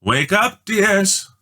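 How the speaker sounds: high, lilting call, rising; mother calling. A narrator's reading. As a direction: gently call the sleeping children awake. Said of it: "Mother's voice called".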